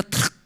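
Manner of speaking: "trac" seco y sin voz; crujido imitado. Retold or imitated. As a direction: imita algo que se quiebra. Imita la pierna que se rompe. (chasquido de hueso roto)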